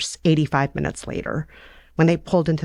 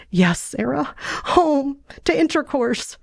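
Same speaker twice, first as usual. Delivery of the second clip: put-on higher, slow, urgent girl; Fanny's voice; 9 semitones higher than usual. Fanny telling Sarah that Papa is hurt, higher and slower. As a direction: drag out the bad news, pitched up.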